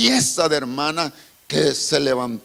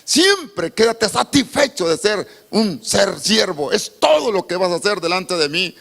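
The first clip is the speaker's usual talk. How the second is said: voice of the Lord; 5 semitones higher than usual. Retold or imitated. The Lord answering the pastor in a dream, solemn. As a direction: speak as God commanding gently. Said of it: "Y le dijo".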